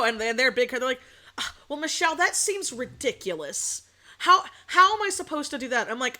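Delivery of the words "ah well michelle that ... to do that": higher, hammed-up indignant complaint; mock indignant protest. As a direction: imitate a flustered in-law objecting. In-laws' protest voiced, acted argument.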